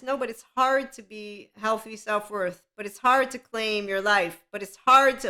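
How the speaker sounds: imitating the excuse-makers with a growing mocking whine; mocking whine, building. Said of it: "that they will present".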